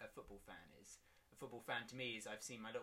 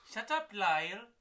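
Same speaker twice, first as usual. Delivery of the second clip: very high, loud squeal; high squeaky; 9 semitones higher, 13 dB louder than usual. Acted. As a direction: shriek it way up high.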